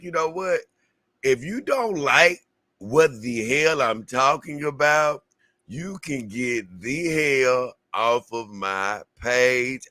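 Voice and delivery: slow, drawn-out imitation of her snapping at viewers; mock telling-off. Reacting vlogger imitating her telling off viewers, mock angry. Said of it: "she was just like".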